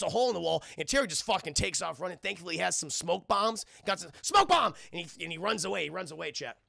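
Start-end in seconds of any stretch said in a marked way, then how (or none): 4.2-4.7 loud, high exclamation; quick mock-heroic yell; called-out move. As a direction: shout it like a cartoon attack. Acts calling out a move.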